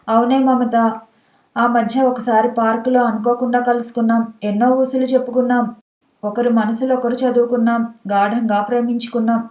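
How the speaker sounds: usual speaking voice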